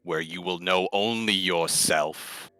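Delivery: low, slow and soft; Stone's gentle plea. Acted. Stone kneeling beside the creature, urging it to come, low and soft. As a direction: speak softly, inviting him along. Player voices Stone in character.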